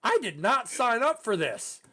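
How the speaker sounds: high, slow, emphatic dismay; retold freaking out. Graduate regretting summer camp, freaking out in thought. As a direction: replay panicked protest, every word loud. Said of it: "freaking out, thinking, like".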